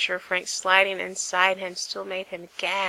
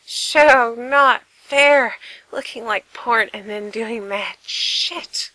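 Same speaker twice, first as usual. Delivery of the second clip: loud protest; 3 semitones higher, 7 dB louder, slower than usual. Acted. Frank protests, overwhelmed.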